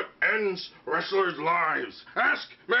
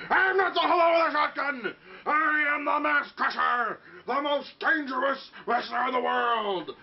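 angry wrestler shout; 4 semitones higher than usual. Acted. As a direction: bellow your correction.

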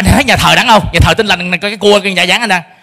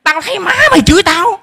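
high raised retort, then the father's high accusation; higher, raised mock argument; shouting at father; 8 semitones higher than usual. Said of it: "Tôi mới la lớn là".

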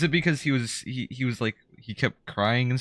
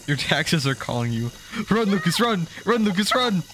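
yelling; 9 semitones higher than usual. Real, not acted. Yelling warnings about chasing bees.

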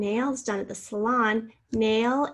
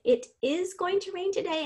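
"It is going to rain today" read higher, each word even; teacher tests the long form aloud, pitched up; sentence expanded, raised; 8 semitones higher than usual. Shown as a demonstration. Teacher checking a contraction for students, raised voice. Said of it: "can I pull that out and say".

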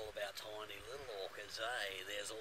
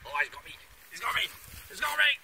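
higher, louder hammed-up screaming; mock panic; 14 dB louder, faster than usual. Bushman pretending the strangling tree grabs him, hammed-up screaming. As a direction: fake being strangled by the tree.

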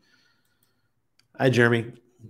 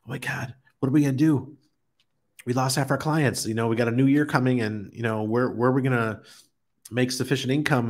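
mock panic, pitched higher, rushing a little; imitating panicked wife; 4 semitones higher than usual. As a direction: act out the wife's year-end worry, half-joking. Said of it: "she'd be freaking out".

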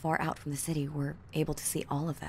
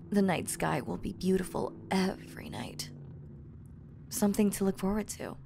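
whispering. Acted. Whispered to sleepy partner.

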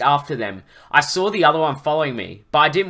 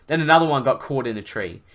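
animated, emphatic story reading; story narration. A narrator's reading. Narrator recounting a dragon rescue to listeners, animated storytelling. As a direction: read the adventure out with drive.

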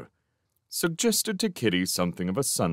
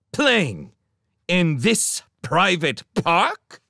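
loud, high, scornful disbelief; incredulous, emphatic challenge; indignant; 11 semitones higher, 5 dB louder, slower than usual. A narrator's reading. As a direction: throw it back in outrage. Magician scornfully echoes her.

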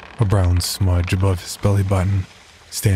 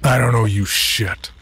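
gruff; 3 semitones higher than usual. Acted. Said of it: "Teddy replied gruffly".

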